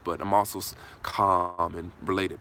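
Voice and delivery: normal talking voice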